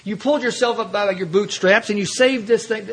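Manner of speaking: egging himself on to take credit; inner voice urging. Retold or imitated. Part of him urging him to claim the credit. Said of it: "a part of me screaming".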